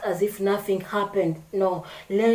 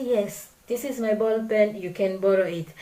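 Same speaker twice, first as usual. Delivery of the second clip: friendly lending. Shown as a demonstration. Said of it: "if I'm someone who does not observe my actions".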